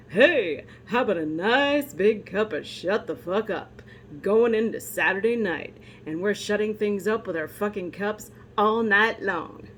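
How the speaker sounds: lightly voiced old-time radio announcer; a hint of a vintage radio pitchman; 1940s radio announcer. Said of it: "nineteen forties radio announcer voices".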